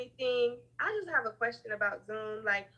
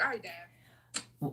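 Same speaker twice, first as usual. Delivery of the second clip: sulky; 4 semitones lower, 3 dB quieter, much slower than usual. Retold or imitated. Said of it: "I was like".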